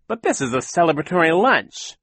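high, loud festive protest; exclaiming. A narrator's reading. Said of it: "Captain Sham exclaimed".

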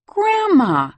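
put-on high excited child's shout; child crying out. Small boy shouting to his grandma, loud and high. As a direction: yell it gleefully like a small boy. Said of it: "Grayer cries out".

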